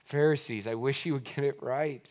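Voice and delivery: soft, let-down head shake; quiet disappointed lament; disappointed sigh. Shown as a demonstration. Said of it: "shaking your head with disappointment".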